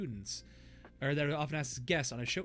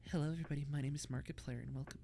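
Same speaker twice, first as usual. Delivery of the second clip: soft lazy flirty drawl; 2 semitones higher, faster than usual. Retold or imitated. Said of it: "all of the testosterone leaves his body".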